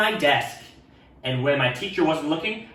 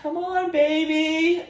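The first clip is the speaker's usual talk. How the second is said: much higher, sweet coaxing; said nicely; slower than usual. Acted. Ralph coaxing the baby nicely, high and sweet. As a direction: coax the baby gently. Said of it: "I said really nicely".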